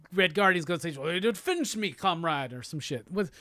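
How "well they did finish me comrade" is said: put-on Russian accent slipping into Sean Connery; botched Russian comrade voice; bad Russian accent. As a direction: attempt a Russian accent, badly. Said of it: "why did my Russian accent sound like it was Sean Connery".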